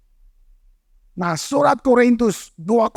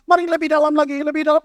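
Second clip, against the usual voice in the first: mock calling out; 4 semitones higher, faster than usual. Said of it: "Nggak, nggak usah, nggak usah gitu-gitu".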